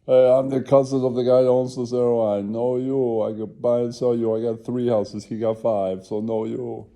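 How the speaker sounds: high, loud mock boast; hammed-up rich cousin voice; bragging cousin. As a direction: brag about owning the airline. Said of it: "after a black guy and goes".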